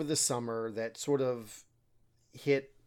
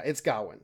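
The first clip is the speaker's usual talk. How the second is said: Gawain with the weight on the first syllable; stress on first syllable; 3 semitones lower than usual. Shown as a demonstration. Summing up the pronunciation, first-syllable stress on Gawain. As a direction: land on the front of Gawain, ending reduced. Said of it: "emphasis on the first syllable".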